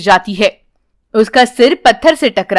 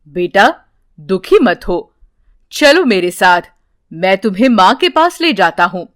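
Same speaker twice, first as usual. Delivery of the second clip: reassuring holy man; 4 semitones lower than usual. Acted. Holy man comforts crying girl.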